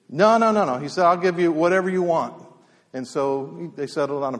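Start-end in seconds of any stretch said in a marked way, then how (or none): 0.1-2.3 higher, mildly insistent rancher quote; lightly acted push to close the deal; eager insistence. Rancher pressing the reluctant horse seller, eager insistence.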